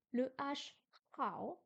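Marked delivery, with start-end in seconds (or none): 1.2-1.6 "hao" with the H far back in the throat; throaty H. Shown as a demonstration. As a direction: start "hao" with a throaty Chinese H. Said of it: "un H un peu dans le loin".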